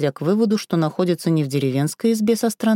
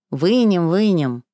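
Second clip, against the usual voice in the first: otherworldly voices; 2 semitones higher, 3 dB louder, slower than usual. Acted. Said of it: "потусторонние голоса".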